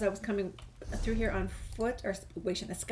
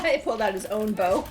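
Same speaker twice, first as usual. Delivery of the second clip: louder amazed exclaim; surprised; 8 dB louder than usual. Real, not acted. To viewers mid-fight, a loud surprised call. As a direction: call it out in disbelief.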